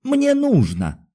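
very high, slow, strained plea; trembling voice. A narrator's reading. Doctor begs the guard to let him out, trembling. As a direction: stretch it out in desperate appeal. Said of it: "сказал он дрогнувшим голосом".

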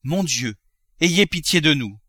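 a mother dreading her husband; frightened cry. Acted. Wife pleading at the gold, mildly fearful. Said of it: "madame Grandet cria".

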